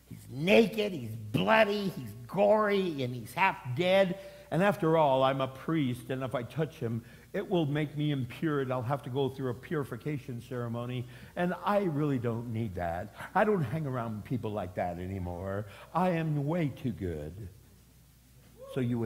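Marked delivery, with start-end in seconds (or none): 0.1-4.2 disgusted listing. Acted. Priest listing what disgusts him. 4.5-17.5 haughty priest. Acted. Self-righteous priest excusing himself.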